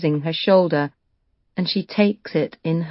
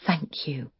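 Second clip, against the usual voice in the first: barely voiced, much softer thank you; just mouth it, almost silent; 11 dB quieter than usual. Lucy silently thanking Henry, mouthed. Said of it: "She mouths the words".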